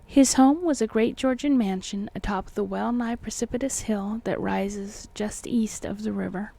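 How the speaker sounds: measured, formal audiobook reading; deliberate literary narrator delivery; story narration. A narrator's reading. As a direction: read the old tale with careful phrasing. Reads the book aloud.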